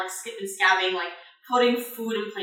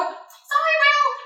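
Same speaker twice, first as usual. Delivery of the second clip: very high, quick call; little high-pitched kobold call; passing apology; 4 dB louder, much slower than usual. Acted. Jenny calls out in passing.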